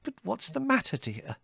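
very high, puzzled motherly question; bewildered. A narrator's reading. Mother questioning her shouting son, bewildered. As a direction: ask in high bewilderment, softening on dear.

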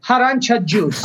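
"Arancia juice" with an H-sound at the front, "harancia"; father's pronunciation. Retold or imitated. Imitating father saying harancia juice with a breathy H. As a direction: aspirate the start of "Arancia juice". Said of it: "He would put an H in front of it".

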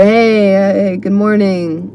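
imitating a half-hearted office greeting; tired, feigned civility. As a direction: greet coworkers politely but without wanting to be there. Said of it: "they're pretending to be civil".

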